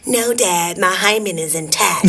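lightly voiced clueless teen daughter; mock innocent, eye-rolling daughter; goofy clueless sitcom voice. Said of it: "Where did that voice come from?".

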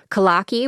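kalaki said the flat Chicago way; Chicago pronunciation. Real, not acted. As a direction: say kalaki in a broad Chicago accent. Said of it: "my very Chicago accent way of pronouncing that".

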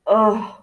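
short grunt on coming round; groggy grunt. A narrator's reading. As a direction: grunt as if shaken awake. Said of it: "she grunted".

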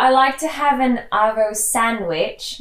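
Aussie accent slipping into British; slow attempt, drifting British; Australian accent. Shown as a demonstration. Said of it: "Now it's turned British now".

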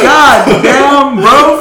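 very high, loud disbelief; hammed-up astonished exclamation; acted shocked outburst. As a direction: cry out, scandalized and half laughing. Shocked reaction to friend's backtalk.

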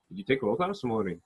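light Scottish lilt, up and down; a hint of sing-song Scottish; almost sung, lightly done Scottish accent. Shown as a demonstration. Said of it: "they talk like that up and down".

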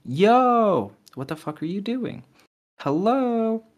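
high, loud mock demand; angry boyfriend. Reading the boyfriend's texts, high mocking yell. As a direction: bark it like a jealous boyfriend. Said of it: "And he goes".

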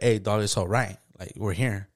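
low, quiet man-to-man reassurance; steady someone softly, without fuss; understated consolation; retold plain comfort. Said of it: "He just told me like".

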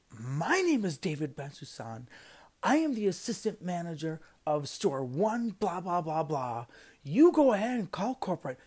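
firm, indignant, rising in pitch and force; retold professional snap. Assistant manager snapping at a rude customer, firmly indignant. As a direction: stand your ground, emphatic but controlled. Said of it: "I just kinda snapped".

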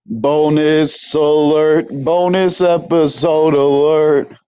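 drawn-out hype announcement; slow announcer hype. Acted. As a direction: stretch it out like an alert siren. Hyped bonus episode intro.

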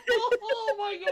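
slow, high words through laughter; helpless with laughter; laughing hard. Real, not acted. Friend cracking up at the repeated blunder, laughing hard.

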